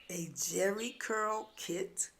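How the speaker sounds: slow, drawn-out disbelief on jerry curl; dawning surprise. Retold or imitated. Narrator realizing what the sister means, slow incredulous question. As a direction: let the penny drop slowly.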